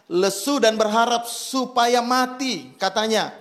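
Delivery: preacher reading scripture. Acted. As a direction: read the passage aloud to the congregation. Reads Jonah chapter four aloud.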